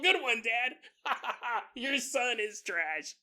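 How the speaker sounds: cheering along through laughter; laughing neighbor. Acted. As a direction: egg the dad on while laughing.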